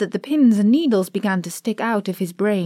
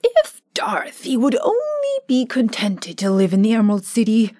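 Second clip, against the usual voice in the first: lightly voiced cheerful scarecrow; a hint of a pleased straw ruler. Scarecrow as new ruler addresses his friends, pleased.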